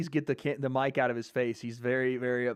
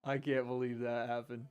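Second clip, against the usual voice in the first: much softer, hushed disbelief; stunned quiet; 3 semitones lower, 10 dB quieter than usual. Real, not acted. Streamer muttering to chat after a shock knockout, hushed disbelief. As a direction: say it under your breath, shocked.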